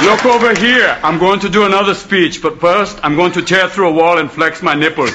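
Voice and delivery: Austrian action-hero Hamlet; Arnold Schwarzenegger. Acted. Action star as Hamlet greeting his mother, Austrian accent. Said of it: "Schwarzenegger walks into the room".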